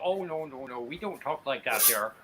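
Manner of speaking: imitated Minnesota accent; mock a Minnesotan's own accent while denying it. Imitating Minnesotans who deny their accent, mock Minnesota accent. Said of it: "people from Minnesota and they go".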